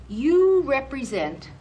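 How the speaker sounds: You represent, drawn out slow and loud; slow, loud emphatic opener; slow emphasis. Real, not acted. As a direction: lean hard on the words, slowly. Emphatic point to the trainees.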